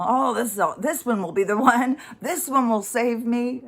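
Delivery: self-mocking, starry-eyed enthusiasm; mock hopeful gushing. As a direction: gush like a hopeful relationship junkie. Mocks her old romantic hopes.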